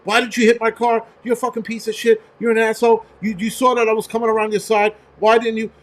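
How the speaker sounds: angry woman yelling at the driver, imitated; retold angry yelling. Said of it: "she starts yelling at the guy".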